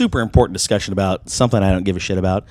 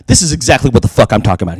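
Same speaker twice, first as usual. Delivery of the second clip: mock smug outburst; 6 dB louder, faster than usual. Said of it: "he's like".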